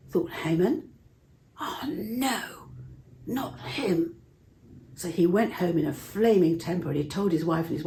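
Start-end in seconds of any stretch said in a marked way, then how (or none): 1.6-4.2 hushed whisper of dismay. Acted. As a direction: breathe it out in a horrified whisper. Haman's dismayed private thought.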